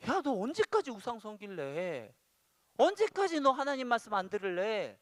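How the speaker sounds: acted parental rebuke, rising in pitch; exasperated telling-off; scolding. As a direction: scold a stubborn child, building in force. God's rebuke voiced as a parent.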